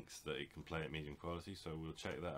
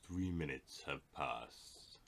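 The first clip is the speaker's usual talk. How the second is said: narrator voice; much slower than usual. Acted. Mock narrator time-skip line.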